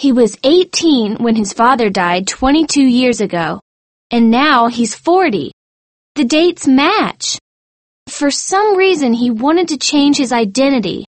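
high, excited chain of deductions; high-voiced student sleuth solving the mystery. A narrator's reading. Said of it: "said Michelle excitedly".

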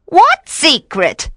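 high, drawn-out witch voice; high-pitched, evasive question. A narrator's reading. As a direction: ask in a high, slow witch voice. Captured witch feigns ignorance.

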